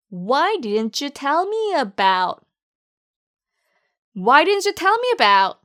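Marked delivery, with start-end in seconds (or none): 0.1-2.4 slow demo. Shown as a demonstration. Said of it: "그럼 같이 발음해 볼까요?".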